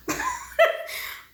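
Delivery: breathy, high chuckle; short laugh. Real, not acted. Reviewer to viewers before starting on the couple, short laugh. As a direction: let a quick laugh slip out.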